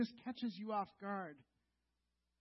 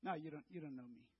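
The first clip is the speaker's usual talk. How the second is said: nervous quick denial; 7 semitones lower, 11 dB quieter, faster than usual. Acted. Peter denying Jesus.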